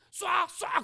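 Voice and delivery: a touch of a devil's push to shoot; mild mock devil egging on; devil urging. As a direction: urge someone to fire, like a voice in the ear. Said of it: "귀에다가".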